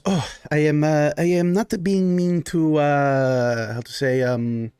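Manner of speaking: halting, courteous Baron offering drinks; hesitant, accommodating host character; Baron, apologetic host. Acted. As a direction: play a solicitous noble host, searching for words.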